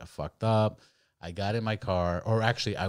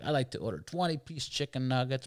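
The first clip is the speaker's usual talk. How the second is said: mock drunk order; 6 semitones higher than usual. Drunk ordering at drive-thru.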